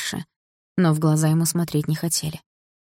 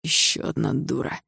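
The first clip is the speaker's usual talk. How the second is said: spat out; 4 dB quieter than usual. Acted. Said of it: "сплюнул один из них".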